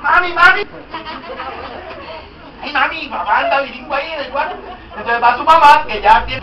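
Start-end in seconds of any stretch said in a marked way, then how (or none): 0.0-4.6 imitating child. Child calling mother.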